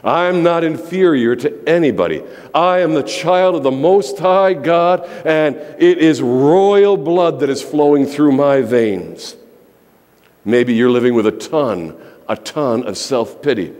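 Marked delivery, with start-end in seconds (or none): 0.0-9.3 bold declaration. Shown as a demonstration. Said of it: "You need to say".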